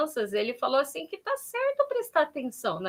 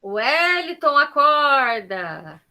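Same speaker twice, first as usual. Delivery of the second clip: drawn-out slow call, a bit louder; calling out to wake him; 4 dB louder, much slower than usual. Real, not acted. Calling Wellington to wake up, drawn-out slow call. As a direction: stretch out acorda long and slow, calling his name. Calling a sleeping participant awake.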